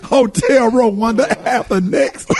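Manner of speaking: slow, laughing repeat. Real, not acted. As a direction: chuckle through the words. Repeating joke while laughing.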